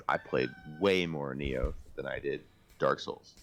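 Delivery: usual speaking voice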